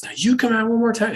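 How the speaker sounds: mock parental threat; threatening. Parent threatening a child who keeps leaving bed, heated. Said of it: "And then it's like threats".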